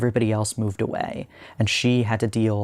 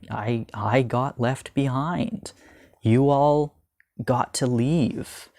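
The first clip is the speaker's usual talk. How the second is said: imitating tearful plea; 3 semitones higher, slower than usual. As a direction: voice the girl's hurt as she cries that she was left behind, half-acted. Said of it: "And then she just starts crying".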